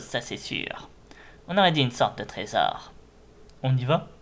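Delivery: lightly voiced sneering villain; a hint of menacing henchman. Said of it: "j'essaie de faire des voix de méchants".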